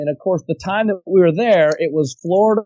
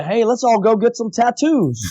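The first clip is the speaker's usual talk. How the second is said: raised, drawn-out mock enthusiasm; eager suggestion; 5 semitones higher, slower than usual. Tipsy friend pitching tattoos to the boys, mock eager. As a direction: pitch a bad idea eagerly. Retold drunken bright idea.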